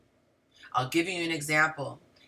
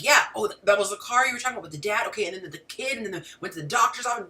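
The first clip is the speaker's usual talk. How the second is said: scattered rambling; 2 semitones higher, much faster than usual. Acted. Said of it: "the way a woman's mind is".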